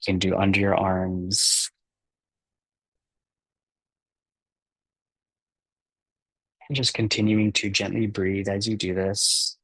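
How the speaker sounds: unhurried meditation guide with long pauses; calm guiding voice, softening and slowing towards the breaths; guided meditation. Acted. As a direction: ease them gently into relaxing, leaving space between phrases.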